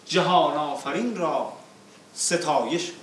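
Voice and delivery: rhythmic declaimed verse, falling line ends; epic teahouse storyteller. Acted. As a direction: recite the verses with epic weight. Reciting opening verses.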